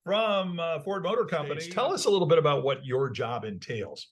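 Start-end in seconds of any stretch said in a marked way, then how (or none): 0.0-1.6 announcer voice. Acted. Host announcing guest.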